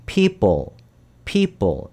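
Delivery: people with tense ㅃ-like p sounds. Shown as a demonstration. Teacher models people with a tense ㅃ sound. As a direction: say people like 삐쁠, tight p. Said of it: "비읍이 두 개잖아요".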